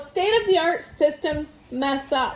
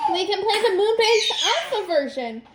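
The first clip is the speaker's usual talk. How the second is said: tag; 6 semitones higher than usual. A narrator's reading. Excited Violet continues her suggestion.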